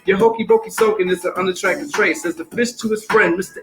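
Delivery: lively singsong rhyme over a beat; rhythmic story reading. Acted. Reading Pout Pout Fish to the audience, rhythmic story reading. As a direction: read it bouncy, riding the rhythm.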